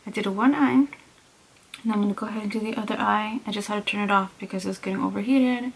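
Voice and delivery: talking through a stiff face mask; barely moving the face while speaking. Real, not acted. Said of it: "I'm talking funny because I can't really move my face".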